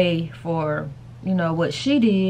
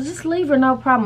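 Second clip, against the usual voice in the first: imitating the babysitter; 7 semitones higher than usual. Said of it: "she said".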